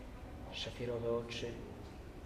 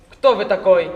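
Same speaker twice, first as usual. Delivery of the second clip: a loud, harsh demand with open contempt; louder Cossack challenge, mocking and severe; stern and scornful; 6 semitones higher, 20 dB louder than usual. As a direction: bark the question down at him like a Cossack officer. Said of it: "obok srogości czuć było wzgardliwą drwinę".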